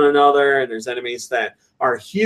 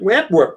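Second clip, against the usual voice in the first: popping up sound; 5 semitones higher than usual. Retold or imitated. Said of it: "Coleman says he likes my pop-up noise".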